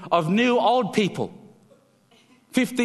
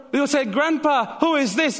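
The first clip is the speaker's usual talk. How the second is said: curious grandchild; 7 semitones higher than usual. Acted. Child asking grandpa.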